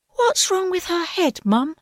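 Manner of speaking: put-on high, bewildered child voice; ask, baffled; puzzled young owl. A narrator's reading.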